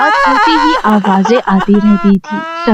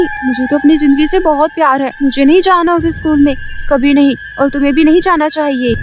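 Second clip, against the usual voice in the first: put-on a fast, high, scared girl; scared schoolgirl; 5 semitones higher, faster than usual. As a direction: rush it out, refusing in fright. Neetu refuses fearfully. (डरकर मना करती सहेली, तेज़ ऊँची आवाज़)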